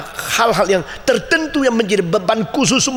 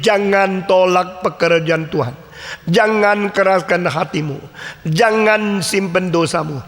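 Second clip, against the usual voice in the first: slow solemn warning; slower than usual. Retold or imitated. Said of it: "kalimat dari Andrew G".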